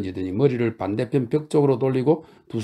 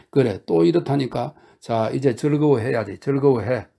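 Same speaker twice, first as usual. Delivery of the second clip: coaxing; 2 semitones higher, 3 dB louder than usual. Acted. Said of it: "그를 얼러댔다".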